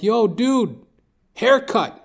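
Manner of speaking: a hint of faked anger at the barber; mock ghetto rant. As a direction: put on a tough street voice, half joking. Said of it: "I'm like".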